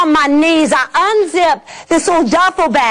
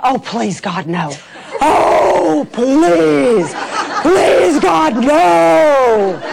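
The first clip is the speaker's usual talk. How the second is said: laughing plea; much slower than usual. Retold or imitated. Pleading with God, laughing.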